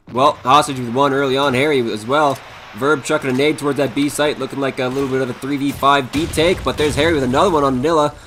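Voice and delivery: fast, lively play-by-play; esports caster. Acted. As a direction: call the round live, energetic. Live play-by-play of the round.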